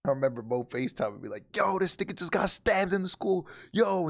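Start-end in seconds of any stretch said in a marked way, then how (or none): 1.5-4.1 higher-pitched imitation of a panicked friend; alarmed retelling. Friend on a video call reporting a stabbing at school, alarmed. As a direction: imitate a friend breaking shocking news.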